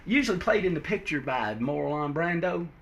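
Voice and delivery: folksy Southern comic narration; down-home Southern storyteller. Acted.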